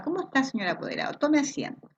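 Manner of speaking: courteous teacher welcoming a parent; polite welcome. Shown as a demonstration. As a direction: welcome the parent kindly and sit her down. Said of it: "¿Cómo estoy yo entregando esa comunicación?".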